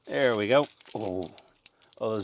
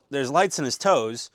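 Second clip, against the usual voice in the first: normal talking voice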